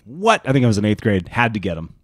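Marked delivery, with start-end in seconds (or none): 0.0-0.4 high, rising what; retold astonishment, pitched up; amazed reaction. Eighth grader first seeing the shoes, high amazed question. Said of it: "I was like".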